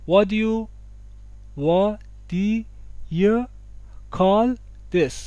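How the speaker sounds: "What do you" as "wa-di-ya", in separate beats. Shown as a demonstration. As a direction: break up "What do you call this", no T in "What". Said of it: "درستش هم به این شکله". («وا، دی، یه» شمرده)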